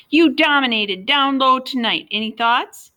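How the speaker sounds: high, loud mock sports reporter; lightly voiced TV interviewer. A narrator's reading. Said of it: "in his official reporter voice".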